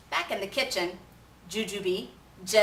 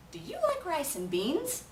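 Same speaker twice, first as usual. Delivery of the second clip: much higher, light little voice; Chihuahua asking; 9 semitones higher than usual. A narrator's reading. Pintolito asking the kitten about food, high. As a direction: chirp the question. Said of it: "asked Pintolito".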